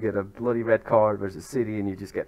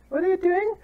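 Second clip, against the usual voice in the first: high-pitched scolding shout; real exasperated yell; 5 dB louder than usual. Real, not acted. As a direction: call it out at the birds in disbelief. Shouting at the turkeys again.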